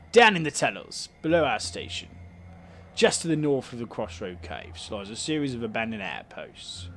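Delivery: light Cockney councillor voice; a hint of Cockney, welcoming tone; Cockney accent. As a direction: play the councillor with a mild Cockney lilt. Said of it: "he's got a Cockney accent".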